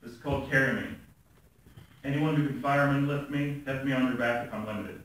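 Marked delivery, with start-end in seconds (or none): 2.0-5.0 measured, even spoken-word delivery; poem reading. Acted. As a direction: read it as a poem, pausing between images.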